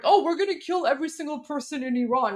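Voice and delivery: quick, dismissive mock of the congressman's line; mocking quote. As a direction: toss it off fast like you're ridiculing it. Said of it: "this is the idiotic rhetoric".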